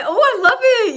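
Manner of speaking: high, loud burst of delight; delighted gush. Real, not acted. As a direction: gush over the comments, thrilled. Reacting to viewers' purple hearts.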